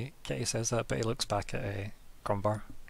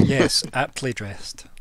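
approving shopkeeper; 8 dB louder, much slower than usual. Acted.

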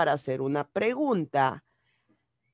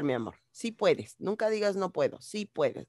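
softer, tender encouragement; gentle reassurance; 5 dB quieter, faster than usual. Real, not acted. Teacher to a pupil who says she can't, gently reassuring.

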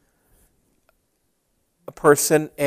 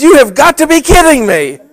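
surprised disbelief; 11 semitones higher, 9 dB louder than usual. Retold or imitated. Old friend recognizes him instantly.

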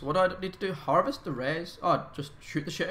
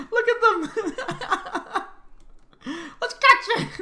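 high, loud giggling through words; laughing hysterically; 9 semitones higher, 8 dB louder than usual. Real, not acted. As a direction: laugh helplessly while talking. Laughing while zombies chase.

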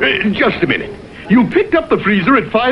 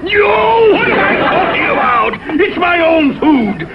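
startled outburst back to anger; 5 semitones higher than usual. Acted. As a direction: catch yourself and burst out. Catches himself, bursts out.

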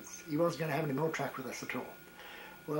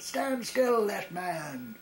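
much higher, louder parade-ground bellow on stand still; louder shout; 7 semitones higher, 5 dB louder, much slower than usual. Retold or imitated. Officer repeats his order to the twitching soldier, louder bellow. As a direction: bellow the order, angrier the second time. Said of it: "and in a louder voice he said".

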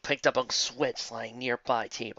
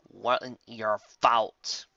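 slow and tender; much slower than usual. Acted. Applejack consoles softly.

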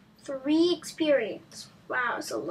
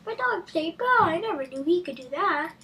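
imitating mom; 4 semitones higher than usual. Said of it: "my mom yelling at my dog".

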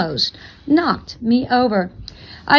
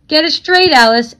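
sharp, louder scolding of Alice; fussing; 4 semitones higher, 5 dB louder than usual. Acted. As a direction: snap at her to get it straight. Couple always fussing.

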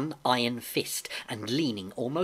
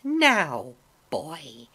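menacing blind man; 3 semitones higher than usual. A narrator's reading. Blind man seizes and orders boy.

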